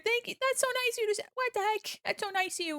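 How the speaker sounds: very high, gushing thanks; touched delight. Real, not acted. Streamer thanking a kind viewer, high delighted squeal.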